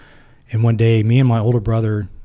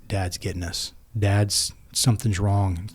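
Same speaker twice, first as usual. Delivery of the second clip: put-on hushed kid worry; 5 dB quieter, slower than usual. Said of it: "so tense of".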